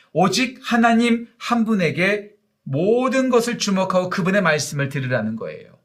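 ordinary talk

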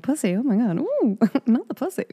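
giggling shocked squeal; giggling in disbelief. Retold or imitated. Then the giggles come again.

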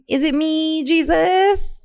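high-pitched meme voice quoting the trend. Retold or imitated. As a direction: lift way up into a silly meme voice. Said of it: "One of my favorite ones".

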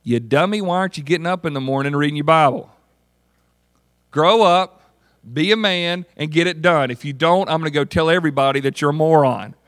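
blunt, scornful tough-love rant with a loud "Grow up"; mock-stern lecture to a lazy disciple; harsh scolding. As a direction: berate him like a drill sergeant. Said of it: "needed me to sharpen them by this".

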